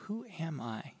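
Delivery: hushed, searching "Who am I?"; inward whisper-soft question. Shown as a demonstration. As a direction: ask "Who am I?" gently, softly, inward to the heart. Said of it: "like you're asking the heart".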